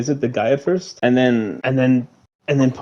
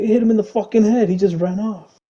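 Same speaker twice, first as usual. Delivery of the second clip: mock disbelief; 8 semitones higher than usual. Acted reply in shooting scene.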